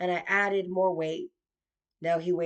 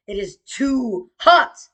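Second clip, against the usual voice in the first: exasperated complaint; 4 semitones higher, 9 dB louder, slower than usual. Retold or imitated. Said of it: "And I'm like".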